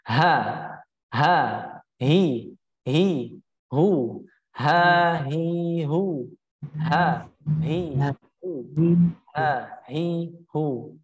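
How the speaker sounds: "ha, hi, hu" with breath flowing through each h; breath-flowing drill. Shown as a demonstration. Teacher shows students the flowing breath, airy letter drill. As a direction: let air flow on "ha", "hi", "hu". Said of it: "mengalirnya nafas".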